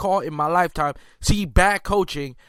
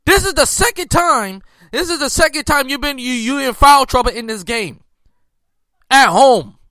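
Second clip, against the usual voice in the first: heated scolding; 4 semitones higher, 4 dB louder than usual. Real, not acted. Scolding the star player.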